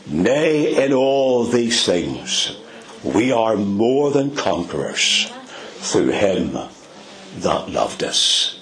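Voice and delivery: slow, solemn reading of the verse; preacher quoting Romans with gravity; scripture reading. Acted. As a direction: read the verse with reverent weight, slowing at the end. Reads scripture.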